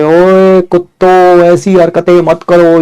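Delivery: slow mock scolding call; drawn-out call to the fighting kids; mom calling out. Mother scolds the brawling kids through the door, slow call. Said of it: "mummy ने उधर से दो चार बार आवाज मारी".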